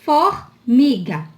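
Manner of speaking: FORMIGA slowly split as "FOR-mi-ga"; sounded R. Shown as a demonstration. Teacher giving an example, slow syllable-final R. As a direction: draw out "Formiga", R sounded before the M. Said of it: "é o R no final de sílaba".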